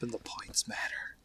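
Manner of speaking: unvoiced joking whisper. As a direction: whisper the twist as an aside. Whispered twist on the quote.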